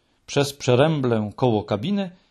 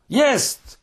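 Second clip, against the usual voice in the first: very high jubilant cry; overjoyed high exclamation; excited shouting; 12 semitones higher than usual. A narrator's reading. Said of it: "krzyczał Muminek".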